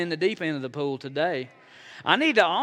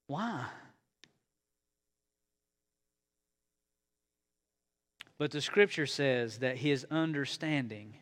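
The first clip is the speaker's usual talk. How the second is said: much softer, intimate sermon voice; hushed reflection; 4 semitones lower, 7 dB quieter than usual. Acted. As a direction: draw them in close and quiet.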